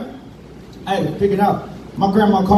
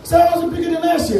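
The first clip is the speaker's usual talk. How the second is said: put-on indignant kid; 7 semitones higher, faster than usual. Kid demanding, fast.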